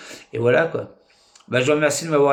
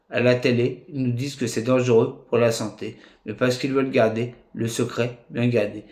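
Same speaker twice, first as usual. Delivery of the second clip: poetry recital. Acted. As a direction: own poem read out in measured phrases. Reads own poem aloud.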